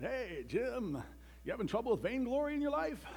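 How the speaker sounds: mock-casual office greeting; breezy coworker making small talk; chatty coworker.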